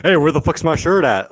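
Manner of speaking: mock condescending white guy; smug condescending white guy; condescending white man voice. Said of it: "the white man condescending voice".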